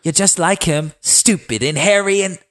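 put-on high taunting girl voice; mock angry sister. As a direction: sneer it high like a bratty sister. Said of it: "Sansa yelled".

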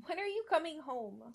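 put-on little girl asking. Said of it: "she asked instead".

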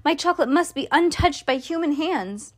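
high, pleading outcry; alarmed cry. A narrator's reading. Mister Wonka begs the boy to stop, alarmed pleading. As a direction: beg in alarm, pitch jumping up at the start. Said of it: "he cried out".

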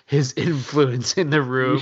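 talking through a laugh; barely straight-faced. Real, not acted. Co-host recounting a teammates' tribute video, barely straight-faced. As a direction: let a chuckle break into the words. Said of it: "can't even say it with a straight face".

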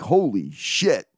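drawn-out, understated amazement; imitated awe. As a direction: imitate someone admiring a big hit. Voices batter admiring his own hit.

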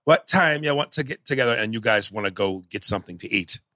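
put-on Jamaican accent that slips in and out; a Jamaican accent that keeps dropping; bad Jamaican accent. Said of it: "here was Denzel".

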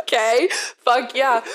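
retold eager agreement. Acted eager agreement to secret order.

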